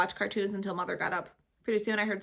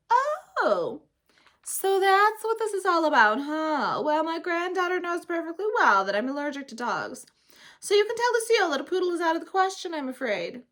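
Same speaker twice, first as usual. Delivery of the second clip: put-on higher amused old lady; a grandma gently refusing a poodle; lightly voiced grandmother; 9 semitones higher, 7 dB louder than usual. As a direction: play a kindly but firm grandma. Grandmother character voice.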